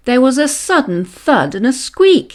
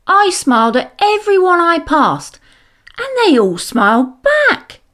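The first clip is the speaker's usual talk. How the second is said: put-on higher boy's voice, proud; declaring child; 8 semitones higher than usual. A narrator's reading. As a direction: announce it like a pleased little boy. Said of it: "declared Kevin".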